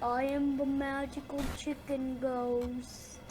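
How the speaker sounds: slow, drawn-out ghost announcement; playful chicken ghost. Pretend. Chicken ghost introducing itself, slow and drawn out. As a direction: stretch the words out like a toy ghost. Child voices a ghost in play.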